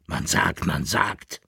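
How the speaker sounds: mild mocking echo; mocking imitation. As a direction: mimic him with scorn. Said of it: "äffte ihn der Kaplirsch nach".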